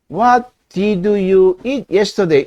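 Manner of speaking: "What did you eat yesterday?" spoken slowly as one whole sentence; slow careful sentence. Shown as a demonstration. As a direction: assemble the sentence slowly but completely. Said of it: "이제 떠듬떠듬이지만 정확히 문장 조합이 됐어요". (천천히 완성된 문장으로)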